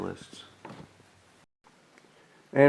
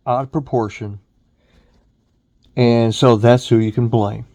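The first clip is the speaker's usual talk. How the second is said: raised, emphatic ranting voice; heated rant; 5 dB louder than usual. Real, not acted. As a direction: hammer the point home, loud. Ranting about boomer blame.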